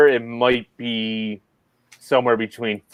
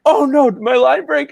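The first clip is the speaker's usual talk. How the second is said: high startled cry, imitating the fishing partner; mock panic, pitched way up; panicked Destin; 4 dB louder than usual. Retelling to friends, buddy panicking his line snapped. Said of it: "Dustin's like".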